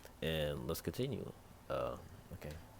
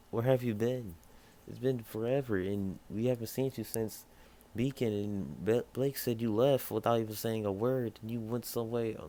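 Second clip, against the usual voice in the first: put-on higher-pitched voice for a mildly upset girl; a hint of hurt reproach, pitched up; 5 semitones higher than usual. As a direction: lightly voice a girl pouring out questions. Acted reunion, worried girl questioning.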